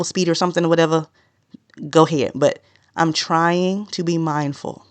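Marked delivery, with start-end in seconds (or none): 3.0-4.8 slow and measured; slow down, mindful of each word; deliberately slow. Real, not acted. Podcaster trying to be mindful of speed, deliberately slow. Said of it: "I'm gonna be talking kinda slow".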